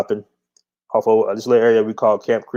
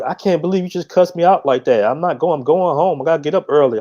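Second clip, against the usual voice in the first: quoting upset date; 5 semitones higher than usual. Retold or imitated. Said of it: "She was like".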